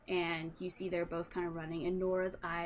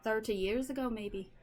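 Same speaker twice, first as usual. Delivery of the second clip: put-on Irish accent. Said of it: "and she goes".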